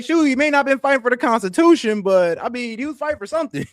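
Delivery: high laughing mock excuse; mock defense. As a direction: play it up while cracking up. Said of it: "You're like".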